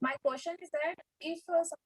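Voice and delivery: very soft, almost lost; barely audible. Real, not acted. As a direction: speak barely above a murmur. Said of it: "Your voice is very low".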